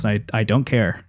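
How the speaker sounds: hoarse, worn-out voice pushing on; strained voice, nearly gone; losing voice. Real, not acted. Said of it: "I can feel myself losing my voice".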